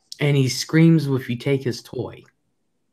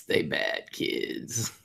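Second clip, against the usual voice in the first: whisper; 6 semitones lower, 11 dB quieter, much slower than usual. Real, not acted. Whispered mock accusation.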